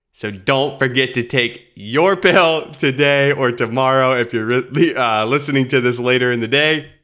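stuffy nasal voice from a lingering cold; nasally voice. Real, not acted. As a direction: talk through a blocked nose. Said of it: "the little nasally voice I have right now".

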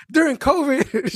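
imagined rant. Retold or imitated. Mail carrier shouting threats to go to NPR. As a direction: rant about going to the press. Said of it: "I'm arguing with everyone".

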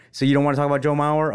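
fast teasing whisper; quick whispered tease. Real, not acted. Teasing the kid aside.

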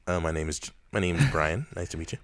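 polite, friendly-customer phone greeting; a light white-person phone voice. Shown as a demonstration. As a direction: answer the phone in a put-on white voice. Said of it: "do you have a white person voice on the phone".

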